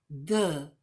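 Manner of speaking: "the" said as "thuh", a short weak vowel. Shown as a demonstration. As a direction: model the consonant form "the" as "thuh". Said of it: "o som da consoante".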